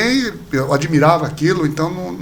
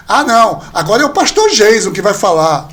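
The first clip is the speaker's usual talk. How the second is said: louder, mock-teasing announcement; mocking colleague; 5 dB louder than usual. Mocking colleague puts the pastor on the spot, louder and teasing. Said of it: "um cara até debochado, falou assim".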